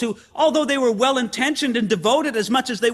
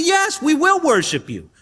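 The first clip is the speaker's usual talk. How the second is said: higher, emphatic pledge; declaration of worship; 6 semitones higher than usual. Acted. The congregation answers Jesus, raised declaration of worship. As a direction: proclaim it on behalf of everyone. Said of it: "We're the ones who say".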